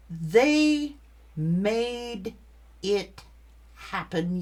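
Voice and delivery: They loud, each word split by pauses. Real, not acted. Reader blaming the ex, slow word-by-word emphasis. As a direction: hammer out They made it happen word by word. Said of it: "stressing each word".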